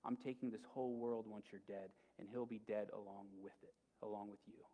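softly voiced menace, only half whispered; mock whisper. Witch to lion before the dagger, lightly imitated whisper. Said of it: "she whispers something to him".

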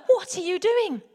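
high, loud, incredulous yell; aghast outcry. Acted. Frightened swimmer calling to Dan holding a stingray, aghast. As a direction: cry out in acted disbelief.

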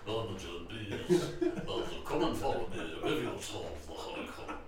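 giant bee voice. Acted.

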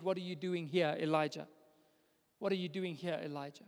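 low and soft, fading away; soft voice of God. Acted. God gently questioning the hiding prophet, softly. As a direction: ask it gently, like a voice from inside the cave. God's voice asks Elijah softly.

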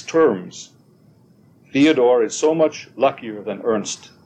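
measured poetry reading with deliberate pauses; poem recital. A narrator's reading. Reading a translated Kushner poem to students, poem recital. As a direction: read the verse line by line, carefully lifted.

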